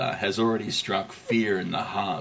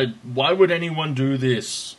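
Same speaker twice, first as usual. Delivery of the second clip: put-on German accent; 4 semitones higher than usual. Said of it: "my terrible German accent".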